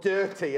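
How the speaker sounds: "Dirty" with an er-like umlaut vowel; umlaut pronunciation. Shown as a demonstration. Host reading the bag name with umlaut, er-like vowel. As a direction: say "Dirty" with the o turned to er. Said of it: "think of the umlaut over the O".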